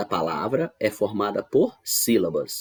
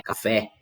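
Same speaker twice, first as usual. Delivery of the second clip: "café" with a firm final "fé"; stress on FÉ. Shown as a demonstration. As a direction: put the weight on "fé" in "café". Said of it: "é a última sílaba que é a mais forte". ("café" com ênfase no "fé")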